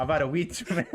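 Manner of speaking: put-on laughing, botched Scottish accent; fake Scottish accent. Kev excusing himself to Root, laughing fake Scottish accent. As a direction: attempt Scottish while cracking up. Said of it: "go back to your Scottish accent".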